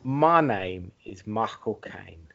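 slow, low Michael Caine line; Michael Caine impression. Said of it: "That's so much better".

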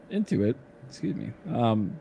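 talking through hiccups; hiccuping between words. Real, not acted. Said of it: "I got the hiccups all of a sudden".

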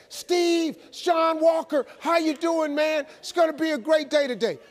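high, chipper morning caller; relentless upbeat wake-up call; John Walker. Retold or imitated. Sponsor calling a sleeping man at five thirty, chipper. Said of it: "He didn't change a damn thing".

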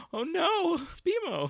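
high, loud alarmed cry of dismay. Retold or imitated. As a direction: gasp out a panicked oh no.

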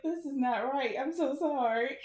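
high, loud laughing sorry; laughing apology. Retold or imitated. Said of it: "I was like".

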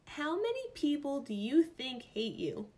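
rereading it in disbelief; incredulous. Real, not acted. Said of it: "Is this a real question right now?".

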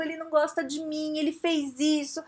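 hammed-up wounded griping; mock complaint. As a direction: pile up grievances in a put-on whine. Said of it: "Tudo é interpretação minha".

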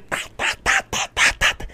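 rapid-fire percussive "ta" sounds; imitated splashing strokes. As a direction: mimic arms slapping water. Imitates arms hitting the water.

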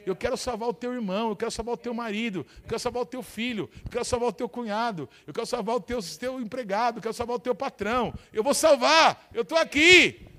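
calling out as Jesus, from level up to a full shout; Jesus's voice building to a shout. Retold or imitated. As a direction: promise to save them, then shout it out. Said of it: "Ele estava dizendo".

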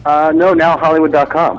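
phone call audio; over the phone. Real, not acted. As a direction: caller heard through the phone. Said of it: "we have Mike on the phone right now?".

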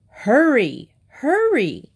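high, impatient call from a mother; shouting. A narrator's reading. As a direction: shout to hurry a dawdling child. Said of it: "his mother shouted at him".

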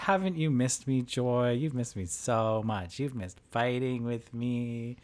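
light, teasing, slowing at the end; mock playful teasing. Podcaster imitates Meghan teasing Joy to defuse it. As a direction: tease her like an old friend. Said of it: "make light of it".

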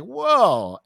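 high drawn-out wow; amazed whoa. Retold or imitated. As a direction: let the amazement hang. Retelling same stunned reaction.

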